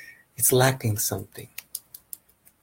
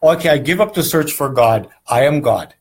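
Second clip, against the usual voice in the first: smug seeker's conclusion; 3 semitones higher, 6 dB louder than usual. Retold or imitated. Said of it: "you finally".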